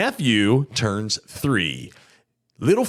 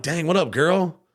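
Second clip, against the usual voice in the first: flirty catcall; 6 semitones higher than usual. Retold or imitated. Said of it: "I see you, and I'm like".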